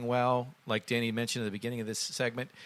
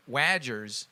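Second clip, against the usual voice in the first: Midwest accent. Real, not acted. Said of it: "my Midwest accent comes".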